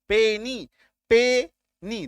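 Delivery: "पेनी" slowly divided as पे, नी; "पेनी" ending in a clear long ee; two clear syllables. Shown as a demonstration. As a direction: sound out both beats of "पेनी". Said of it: "दो syllable".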